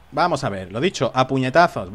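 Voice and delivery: usual speaking voice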